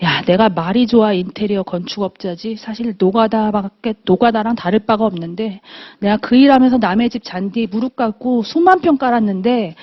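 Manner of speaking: understated imitation of a man moved to tears; lightly voiced husband, subdued and emotional; tipsy, tearful husband. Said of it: "이러면서 딱 우는 거예요". (술기운에 울컥한 남편을 담담히 흉내 내듯)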